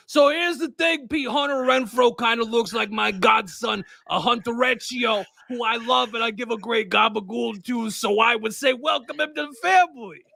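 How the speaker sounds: lightly voiced Italian-American wiseguy; a hint of a New Jersey Italian accent; mock Italian-American mobster. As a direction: play it like a mob uncle, barely put on. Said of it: "a character change".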